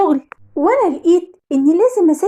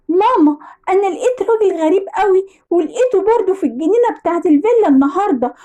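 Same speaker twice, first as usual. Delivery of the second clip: put-on young daughter; 3 semitones higher than usual. Daughter telling mother of a stranger, childlike. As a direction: report it to mum like a little girl.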